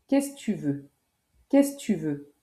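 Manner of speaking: "qu'est-ce" with que dropped, kess tu veux; casual run-together kess tu veux; casual spoken. Shown as a demonstration. Teacher to learner, giving the answer, casual. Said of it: "Ça se prononce".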